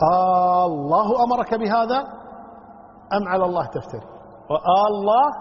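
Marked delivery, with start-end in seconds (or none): 0.1-2.0 آه الله أمرك بهذا drawn out, rising at بهذا; questioning tune. Shown as a demonstration. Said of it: "استفسار". 4.5-5.3 وآه الله with a long آه rising on الله; questioning Aah. Shown as a demonstration. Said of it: "سؤال استفهام".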